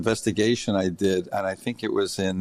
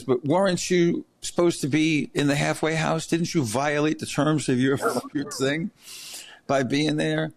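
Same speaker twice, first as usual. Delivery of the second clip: higher accusing quote of the woman; imitating the attorney; 6 semitones higher than usual. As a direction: play her as a suspicious prosecutor. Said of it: "She says".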